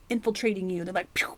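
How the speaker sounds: hushed, secretive whisper. Pretend. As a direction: breathe it like a secret. Spooky aside about attackers.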